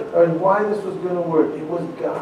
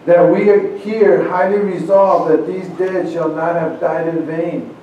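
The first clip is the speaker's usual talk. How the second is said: grave, measured oration with weighty pauses; formal speech recitation. Acted. Preacher reciting Lincoln's address to the congregation, grave oration. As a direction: deliver it like a president at a battlefield.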